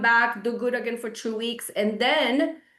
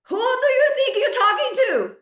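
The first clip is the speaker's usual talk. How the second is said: much higher and louder, with stress on "you"; outraged repeat; 13 semitones higher, 5 dB louder than usual. Real, not acted. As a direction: hit it again, fully outraged. Repeated, escalated.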